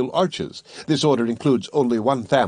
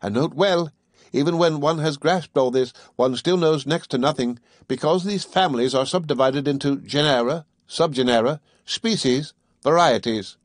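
raised, precise lecturing voice; scholarly Conseil; 3 semitones higher than usual. Acted. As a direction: recite it like a tidy young scholar.

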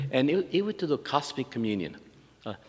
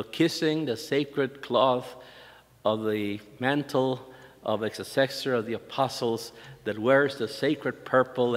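slow, drawn-out solemn reading of the nun's letter; ornate letter reading; slower than usual. Retold or imitated. Nun's flowery letter to the archbishop, slow mock solemn reading. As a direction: read it out slowly with mock solemnity. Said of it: "so the letter would start".

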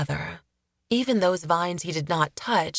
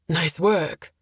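out of breath. Acted. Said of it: "panting, his voice empty of the usual bravado".

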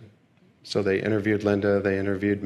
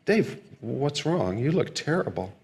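worried mother; 4 semitones higher than usual. Retold or imitated. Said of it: "she looks concerned and says".

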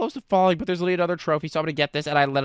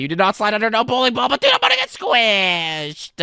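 higher, rising exclamation stretched out at the end; playful alarmed yell; 4 semitones higher, 4 dB louder than usual. Pretend. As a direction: yell it, dragging out the last word. Mock alarm as ball approaches.

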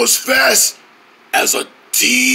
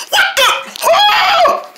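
shocked; 8 semitones higher than usual. Acted. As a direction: react in total disbelief. Shocked by speed.

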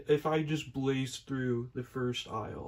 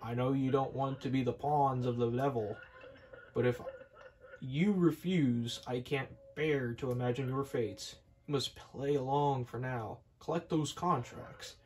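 put-on wise old kettle. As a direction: counsel them gravely like a grandfather. Elder Kettle voiced.

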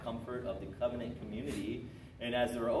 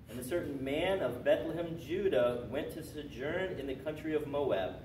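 scripture read aloud; 3 semitones higher, 3 dB louder than usual. Real, not acted. Teacher repeating the clue after a wrong guess, emphatic reading. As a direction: declaim the verse as a clue.

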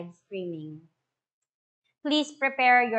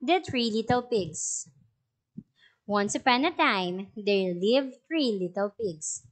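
story narration; 2 semitones lower than usual. A narrator's reading. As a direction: clear storybook reading to a class. Teacher reads story aloud.

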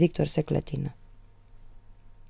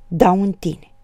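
trembling defiance; 3 semitones higher, 8 dB louder, slower than usual. A narrator's reading. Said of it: "răspunse ea tremurând".

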